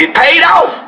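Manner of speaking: high, thrilled exclamation; giddy payoff cry; excited. Acted. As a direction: crow it like a winner. Celebrating the payout.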